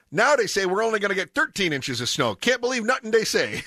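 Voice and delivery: high-pitched, griping put-on accent; Pops's accent. Pops distrusts the forecasters, high mock-griping accent. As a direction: grumble at forecasters in a comic accent. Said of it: "I always read his texts in an accent".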